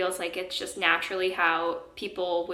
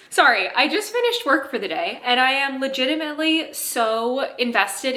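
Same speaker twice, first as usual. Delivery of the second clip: out of breath; 4 semitones higher than usual. Real, not acted. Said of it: "I'm still so out of breath".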